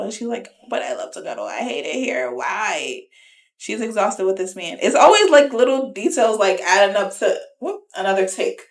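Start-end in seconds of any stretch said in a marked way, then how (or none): 0.7-3.0 low, subdued imitation of a sulk; lightly acted, quiet lament; mock dejected complaint. Co-host imitating a partner denied cuddles, mock dejected.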